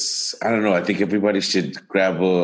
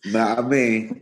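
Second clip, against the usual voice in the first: put-on British accent; 3 semitones higher, slower than usual. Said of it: "I said it with a British accent".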